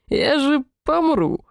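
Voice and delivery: high, slow, laughing plea; plead, weak with laughter. Acted. Demon helpless with laughter.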